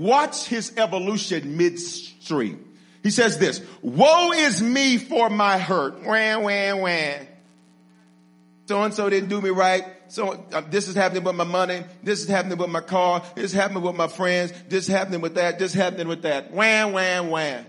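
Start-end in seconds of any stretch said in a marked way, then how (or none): 3.8-7.3 lightly mocking, drawn-out lament; a mild put-on whine; mock whining. Preacher voicing broken Jeremiah's complaint, mock whining. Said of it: "he starts out whining". 8.7-17.6 rattled-off mock complaints; mild whiny list ending in baby wails; mock whining. Preacher mimicking a complainer's money and car troubles, mock whining. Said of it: "he starts out whining".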